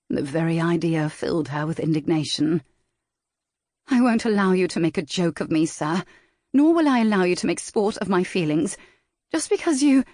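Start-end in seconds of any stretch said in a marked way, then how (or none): 3.9-10.0 indignant lady. Acted. Valentine indignant, cut off.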